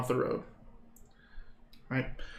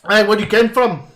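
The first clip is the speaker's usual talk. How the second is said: put-on Scottish accent; 6 semitones higher, 8 dB louder than usual. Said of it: "This is a decent Scottish".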